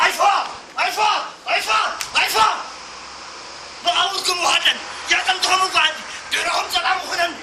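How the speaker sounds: defiant cry. Acted. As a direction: fire out each refusal, then declaim. Defiant cries in heroic monologue. (ናይ እምቢታ ፉከራ)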